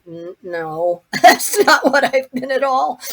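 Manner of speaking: high, loud, amused objection; incredulous, laughing retort; laughing protest. Retold or imitated. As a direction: burst into a laugh while contradicting. Amused protest at daughter's explanation.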